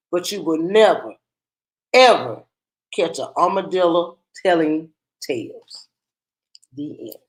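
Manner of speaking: put-on lively storybook narration for kids; reading to children. A narrator's reading. Teacher reading a picture book aloud to children, lively storybook voice. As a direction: read the tale aloud to a class.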